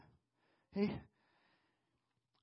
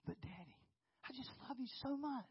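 sweet-talking daughter; 2 semitones higher, 6 dB quieter than usual. Retold or imitated. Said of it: "she looks at me and she says".

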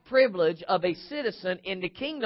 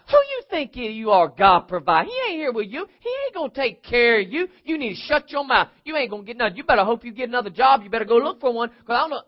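raised-pitch scornful badgering; mock shouting; 3 semitones higher, 3 dB louder than usual. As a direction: taunt and scold in a stream. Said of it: "how loud they shout and scream".

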